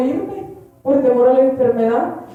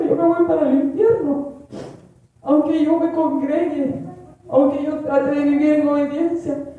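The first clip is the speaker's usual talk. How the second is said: frightened plea; 3 semitones higher than usual. Retold or imitated. Frightened prayer reading scripture.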